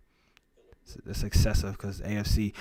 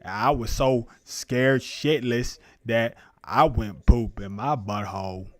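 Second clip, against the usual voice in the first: Forrest Gump. Pretend. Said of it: "I got a little into that character there".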